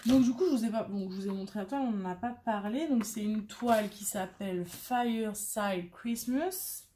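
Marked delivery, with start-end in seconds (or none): 4.7-6.9 put-on Fireside Christmas with a playful English accent; mock English accent. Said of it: "avec un super accent anglais".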